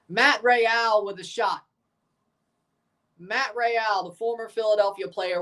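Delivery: quick commentator call rising on chances; live play-by-play. Real, not acted. Streamer narrating the match live to chat, play-by-play call. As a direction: call the action as it happens.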